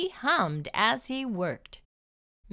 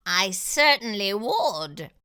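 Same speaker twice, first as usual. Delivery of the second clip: fox declaring; 5 dB louder, slower than usual. Acted. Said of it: "the fox declared".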